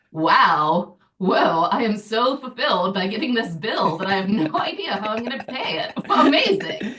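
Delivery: builds to a high, laughing "Amazing"; mock ecstatic. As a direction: gush over the bill, cracking up. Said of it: "just be like".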